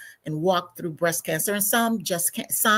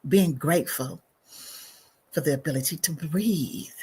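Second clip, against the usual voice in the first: guided breathing meditation. Real, not acted. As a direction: guide listeners gently into stillness. Leads a breathing pause.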